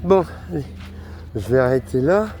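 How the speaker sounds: muffled behind a face mask; speaking through a face mask. Real, not acted. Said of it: "comme je parle avec le masque".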